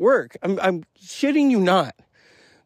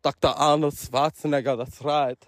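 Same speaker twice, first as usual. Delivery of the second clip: put-on Austrian accent. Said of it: "an Austrian accent".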